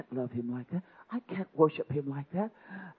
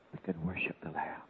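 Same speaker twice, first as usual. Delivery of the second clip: hushed whisper; 8 semitones lower, 9 dB quieter than usual. Real, not acted. Hushed sermon moment.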